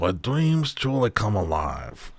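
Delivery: theatrical grande dame of Paris; affected Parisian character. Acted. Angelina boasts to the player of Paris, affected put-on voice. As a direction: lay on the fabulous Parisian act.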